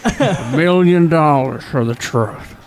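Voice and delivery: a hint of slurred, slow stroke-victim speech; Larry Flynt impression. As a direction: slur it out of one side of the mouth. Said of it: "I'm gonna do a character voice".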